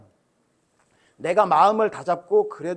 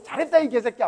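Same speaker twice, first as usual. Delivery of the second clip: praise with a curse; 5 semitones higher, 4 dB louder than usual. Retold or imitated. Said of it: "막 이러는 거야".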